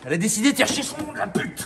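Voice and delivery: laughing exasperation. Real, not acted. Swearing jokingly at stubborn air box.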